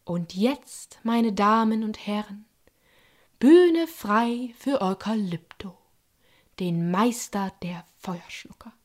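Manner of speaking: circus ring announcement, slow build; announcer. Acted. Grey lady announcing Eukalypto to the crowd, grand and slow. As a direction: present the star like a ringmaster. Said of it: "kündigte die graue Dame ... an".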